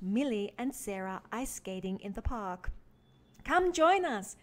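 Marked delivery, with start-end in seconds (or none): 3.4-4.4 high, loud friendly call across the ice; cheerful call. Acted. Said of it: "said Millie".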